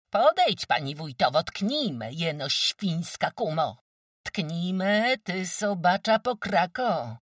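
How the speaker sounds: high, loud shrieked challenge; shrieking dare. Acted. Kozłowa daring the wójt's wife to strike, shrieking. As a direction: scream at her to come on. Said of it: "zawrzeszczała".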